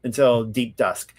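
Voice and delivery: measured, formal reading aloud; solemn recital of ancient law; scripture reading. Real, not acted. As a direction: read out the law, phrase by phrase.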